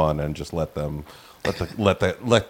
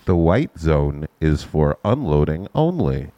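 airport announcement; 4 semitones lower, slower than usual. Shown as a demonstration. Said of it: "Let me, let me do something".

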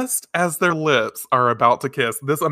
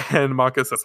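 usual speaking voice

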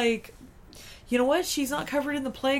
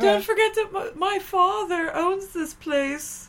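high, loud, slow snooty brat; drunken posh sneer; 8 semitones higher, 4 dB louder, slower than usual. Retold or imitated. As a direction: drawl like a spoiled heir. Mocking the brats.

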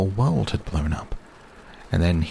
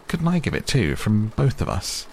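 high, eager plea; a lightly voiced eager Owl; 5 semitones higher than usual. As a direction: ask hopefully, pitched up.

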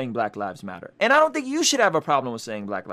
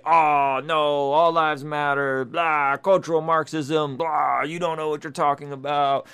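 dismissive mock; slower than usual. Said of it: "to just say".

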